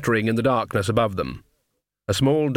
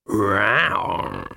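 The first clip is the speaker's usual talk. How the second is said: drawn-out catlike "rowr"; tomcat yowl; 3 semitones lower than usual. A narrator's reading. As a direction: growl it slowly like a big cat. Half-man cat's growling greeting.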